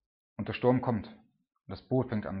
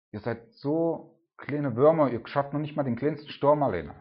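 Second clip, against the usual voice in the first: mock scolding; 3 semitones higher, 5 dB louder than usual. Mock Jesus scolding disciples.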